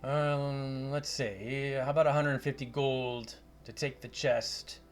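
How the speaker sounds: hint of a Scottish wizard; Scottish accent. Wizard offers gold for delivering the chest, light Scottish accent. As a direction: haggle in lightly Scottish tones. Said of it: "a Scottish accent".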